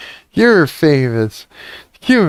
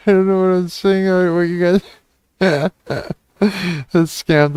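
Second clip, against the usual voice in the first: laughing; 5 semitones higher than usual. Real, not acted. Laughing at own words.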